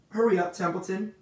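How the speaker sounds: high, loud plea to hurry; urgent. A narrator's reading. Pig hurries unhurried rat, urgent. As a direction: urge him on anxiously.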